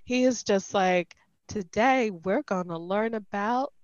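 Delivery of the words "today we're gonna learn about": lightly imitated Southern Belle teacher; male Southern Belle. College biology teacher to class, imitated male Southern Belle accent. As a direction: lecture like a Southern Belle dandy. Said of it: "basically a male Southern Belle".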